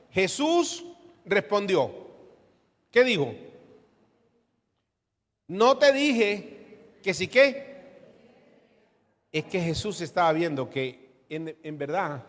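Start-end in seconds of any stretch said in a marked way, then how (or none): 5.5-7.7 slow rebuke. Acted. Jesus rebuking, congregation completes.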